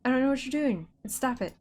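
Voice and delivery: high, loud, exasperated pleading; exasperated yell. Real, not acted. Scolding the game as it misbehaves, exasperated. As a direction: plead loudly with the game to stop.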